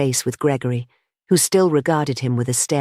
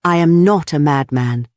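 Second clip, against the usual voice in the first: NOT pushed out loud; passionate, stress on NOT; 4 dB louder than usual. A narrator's reading. Gregory to the meeting, passionate stress on NOT. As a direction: insist hard on the word NOT. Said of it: "panting and passionate".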